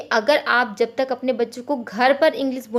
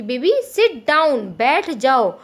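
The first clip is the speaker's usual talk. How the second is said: slow, louder "baby सिट डाउन, बैठ जाओ"; firm but gentle instruction; 5 dB louder, much slower than usual. Shown as a demonstration. Mother teaching her baby both languages, slow and clear. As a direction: say it slowly and clearly so the baby learns. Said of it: "आपको baby को बोलना है कि".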